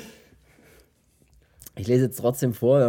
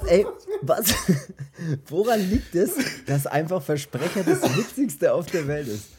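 laughing; 4 semitones higher than usual. Real, not acted. Giggling fit over a slip.

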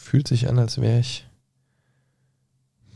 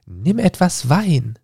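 encouraging tone; 7 semitones higher, slower than usual. Acted. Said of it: "im aufmunternden Ton".

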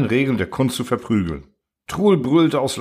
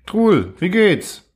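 slow, higher, drawn-out hello; mock-hearty greeting; 8 semitones higher, 4 dB louder, much slower than usual. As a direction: greet him with exaggerated cheer. Friendly greeting to the copy.

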